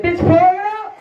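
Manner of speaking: sharp, high, bossy command; mock angry order. Wife orders husband to plug in his dead phone, high and bossy. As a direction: snap the order at him, half laughing.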